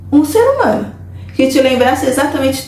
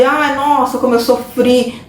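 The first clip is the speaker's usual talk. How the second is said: leve queixume encenado, arrastado; lamento pesaroso; slower than usual. Acted. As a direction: imite de leve alguém se lamentando devagar. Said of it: "ele não fala com pesar de". (pesar fingido, sem exagero)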